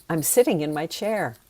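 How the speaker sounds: genuine, mild enthusiasm; enthusiastic. Shown as a demonstration. Teacher showing a difference in energy, enthusiastic. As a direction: say it with enthusiasm, without convincing.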